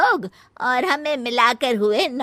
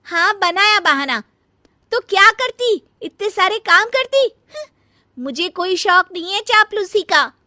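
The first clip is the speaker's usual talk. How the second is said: louder, higher talking back; defiant retort; 7 semitones higher, 4 dB louder than usual. Acted. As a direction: throw the accusation right back.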